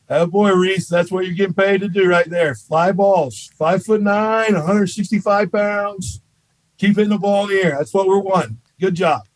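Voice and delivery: a coach's dry, teasing "good job"; dry sarcastic praise. Retold or imitated. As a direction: needle the hitter with fake praise. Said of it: "that dry sense of humor".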